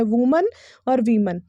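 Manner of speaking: वुमन and वीमन with a reduced "mun" ending; correct pronunciation. Shown as a demonstration. Teacher giving the right forms, correct pronunciation. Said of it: "इसका जो सही है".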